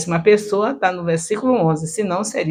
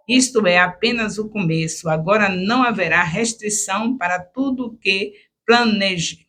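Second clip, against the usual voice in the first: clear, measured choral-reading voice, a touch raised; declaiming Scripture. Shown as a demonstration. Teacher demonstrating a verse for the choral group, declaimed. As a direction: read the verse out with fine intonation. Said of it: "com a voz bonita, uma boa entonação".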